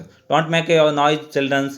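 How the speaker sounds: very slow, drawn-out classroom command; teacher to children. Pretend. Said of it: "बच्चे ज़्यादा आवाज़ करे तो". (शिक्षक बच्चों को शांत रहने को कहता है, बहुत धीमे-धीमे)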